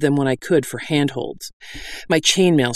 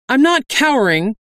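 much higher indignant protest; ringing out; 11 semitones higher, 4 dB louder than usual. A narrator's reading. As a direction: call out in a high, defensive voice. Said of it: "Dahl's voice rang out".

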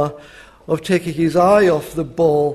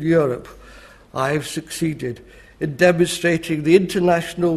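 lightly voiced statesman reporting to the House; a hint of grandiose parliamentary oratory; Winston Churchill. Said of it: "do my Churchill impression".

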